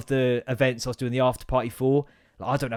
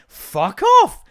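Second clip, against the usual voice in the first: very high, loud comic yell; high-pitched fed-up holler; exasperated shout; 12 dB louder than usual. Acted. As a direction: explode at the nagging gadget. Loses temper with the watch.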